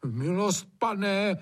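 aghast servant begging his master, pitched high; horrified plea. A narrator's reading. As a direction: plead in shock with the master. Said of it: "zhrozil se Hajný".

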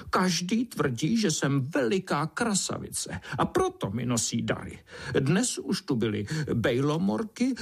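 high, indignant beetle voice, stretching the last words; huffy vain beetle. Acted. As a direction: sulk and brag in a high voice. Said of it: "broučice se vztekala". (rozčilená broučice vysokým hlasem)

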